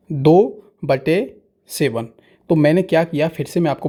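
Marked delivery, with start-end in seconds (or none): 0.1-2.1 दो बटे सेवन spelled out word by word, very slow; slow read-out. Shown as a demonstration. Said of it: "Hindi में पढ़ता हूँ इसको बट्टे". (धीरे-धीरे पढ़कर बताना)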